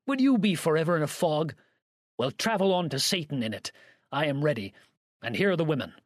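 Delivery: mildly heated exclamation; exasperated cry. A narrator's reading. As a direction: cry it out at someone who won't understand. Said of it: "cried Campbell".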